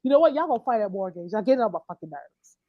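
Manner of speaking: low, softened mock scolding; fed-up pappy. Bad pappy sick of everyone, fed up. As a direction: scold wearily, dropping down low. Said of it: "like the bad pappy that he's sick".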